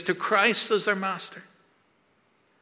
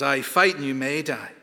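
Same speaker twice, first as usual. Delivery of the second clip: William Wallace speech. Retold or imitated. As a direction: stir the troops before battle. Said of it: "William Wallace says".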